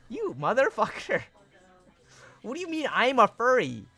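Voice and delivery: high, loud mock-offended rant; indignant yelling. Real, not acted. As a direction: yell back at the chat, offended.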